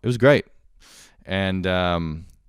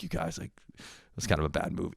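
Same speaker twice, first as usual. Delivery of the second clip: soft, subdued mock reprimand; half-hearted scolding; 9 dB quieter than usual. Coach has to walk back his approval, soft half-hearted scolding.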